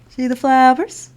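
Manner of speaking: excited question. Acted. Reading to children, asking.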